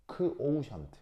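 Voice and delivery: "크오우션트" with a weak "크". Shown as a demonstration. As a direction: lead lightly with "크", then "오우션트". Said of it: "그 크를 실제로 약하게". ("크오우션트"의 "크"를 약하게 발음)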